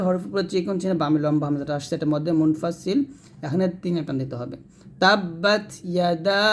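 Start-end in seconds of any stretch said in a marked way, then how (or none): 5.0-6.4 slow Quran recitation. Shown as a demonstration. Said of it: "teacher recites the verse slowly".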